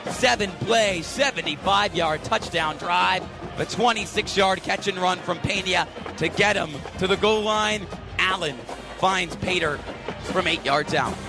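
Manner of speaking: punchy sportscaster recap, stretching key words; radio play-by-play. Real, not acted. Live radio play-by-play, station ID.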